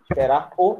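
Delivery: "esperar o" with a separate final "o"; awkward uncontracted form. Shown as a demonstration. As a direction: show "esperar o" as two unjoined words. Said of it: "ia ficar estranho". ("esperar o" separado, soando estranho)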